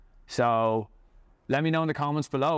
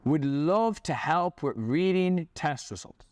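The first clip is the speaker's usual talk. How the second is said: slow sweet offer; 3 semitones higher, slower than usual. Retold or imitated. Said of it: "tried to feed the carrot".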